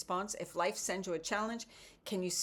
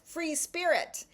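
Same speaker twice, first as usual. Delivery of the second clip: free spirit drawn out high and slow; dreamy delight; 10 semitones higher, 4 dB louder, slower than usual. Acted. Reading her card aloud, high and slow, delighted. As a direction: savour the words like a wish.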